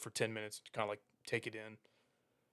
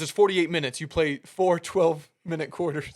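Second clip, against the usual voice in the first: louder, slow, exasperated explaining; imitating a fed-up coach, slow and louder; irritated coach; 5 semitones higher, 6 dB louder than usual. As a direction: spell it out to a clueless kid, fed up. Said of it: "getting pissed off".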